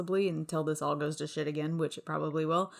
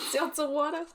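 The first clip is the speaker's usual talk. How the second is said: put-on echoed New York accent; 8 semitones higher than usual. Echoing the imitated accented question.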